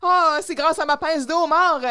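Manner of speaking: high, triumphant celebrating; acted jubilation. JD chosen by the boss, celebrating triumphantly. Acting winner rejoicing at being chosen.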